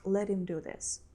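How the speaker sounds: "Let him" as one quick word, "Let 'im", with no H; linked, fast. Shown as a demonstration. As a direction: run "let him" together and drop the H. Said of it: "They pronounce it very fast".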